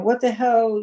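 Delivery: retold drunk yell. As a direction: bark it like the drunk husband. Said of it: "starts yelling at her".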